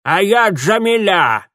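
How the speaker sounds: slow, loud, high grinning crone; bare the gums and announce it; old woman grinning as she introduces herself; toothless grin. A narrator's reading. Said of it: "оскалила она беззубые дёсны".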